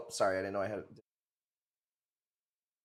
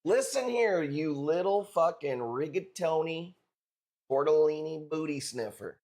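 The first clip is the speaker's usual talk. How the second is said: mock tough guy. Mock tough Italian insult.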